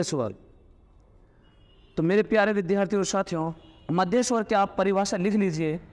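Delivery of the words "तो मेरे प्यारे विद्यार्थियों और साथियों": fast warm teacher address; rapid class address. Shown as a demonstration. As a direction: rattle off the greeting to students.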